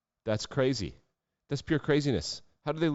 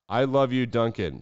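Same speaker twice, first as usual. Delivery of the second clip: mock gushing fan; 3 semitones higher, 3 dB louder than usual. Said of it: "quoting the woman".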